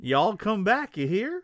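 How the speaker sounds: folksy Southern country twang; country accent. Acted. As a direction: holler a country goodbye. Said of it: "talks country anymore".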